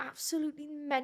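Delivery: amateur Geordie accent. Asked to try a Geordie accent, giving it a go: attempted Geordie accent. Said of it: "Geordie accent".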